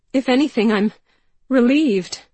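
loud, high, cracking with relief; raw outburst. A narrator's reading.

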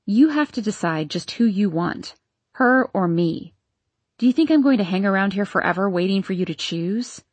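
lightly voiced ultimatum; Vera's voice.

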